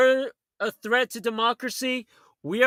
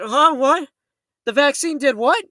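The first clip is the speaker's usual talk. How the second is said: louder, baffled questioning; mock disbelief; 3 semitones higher, 4 dB louder than usual. Voicing the uninformed who have no idea, mock disbelief. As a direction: play someone caught off guard. Acting out clueless listeners' reaction.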